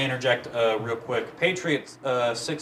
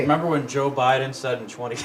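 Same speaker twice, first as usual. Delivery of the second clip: laughing. Real, not acted.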